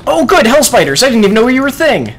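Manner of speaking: fast, high sarcasm at the hell spiders; sarcastic glee. Real, not acted. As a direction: greet the monsters with fake cheer. Sarcastic greeting to new enemies.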